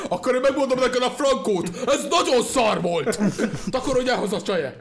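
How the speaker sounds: high, loud hammed-up tirade; mock harsh judge. Judge sends the singer home, mock furious. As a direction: play an outraged judge, drawing out the insult.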